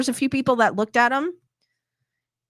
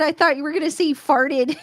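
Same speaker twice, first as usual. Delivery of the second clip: laughing; 4 semitones higher than usual. Real, not acted. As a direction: crack up at the comment.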